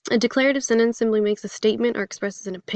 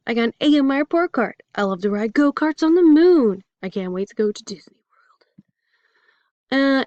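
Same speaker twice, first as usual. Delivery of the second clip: higher-pitched excited example sentences; excited exclamation; 3 semitones higher, 4 dB louder than usual. Shown as a demonstration. Teacher giving examples of exclamatory sentences, excitedly. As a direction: gush with a touch of excitement. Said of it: "expresses great emotion, such as excitement".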